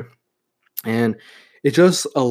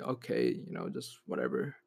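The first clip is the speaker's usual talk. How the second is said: much softer, mumbled don't-care reply; indifferent shrug; 10 semitones lower, 15 dB quieter than usual. Retold or imitated. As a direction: let it fall away as if nothing matters, much quieter. Teen shrugging off his father.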